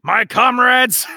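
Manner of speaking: slow, lofty mock-villain declaration; grand tycoon speech. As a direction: proclaim it like a smug oil baron.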